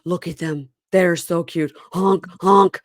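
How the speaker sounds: excited, honking at sea lions; silly clown. Retold or imitated. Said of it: "He, he's excited. He goes".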